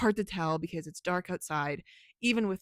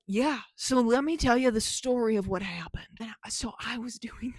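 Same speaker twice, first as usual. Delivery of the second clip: chill storyteller; 3 semitones higher than usual. Retold or imitated. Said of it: "a storyteller way of they talk".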